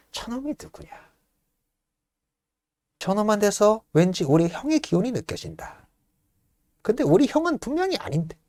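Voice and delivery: high, edgy, muttered dread; jittery paranoid younger brother; anxious paranoia. Acted. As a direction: spiral into panic about the brother. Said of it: "극도로 불안 증세에 슬슬 빠지기".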